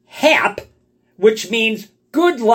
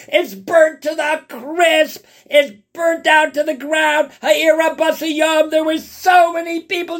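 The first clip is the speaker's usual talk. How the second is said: lament; 6 semitones higher than usual. Acted. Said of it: "He's, he's bawling his eyes out".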